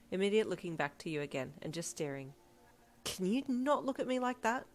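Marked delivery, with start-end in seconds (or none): 3.0-4.7 higher, flustered complaint; squirming, raised-pitch protest; embarrassed huff. A narrator's reading. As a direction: huff it out, self-conscious. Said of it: "you huffed with embarrassment".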